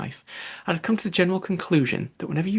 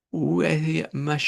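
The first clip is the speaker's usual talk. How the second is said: slow, careful French lesson-book phrase; Alice trying her lesson-book French on the mouse, slow; schoolbook French; 3 semitones higher, much slower than usual. Acted. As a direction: read it slowly like a French lesson. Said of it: "the first sentence in her French lesson book".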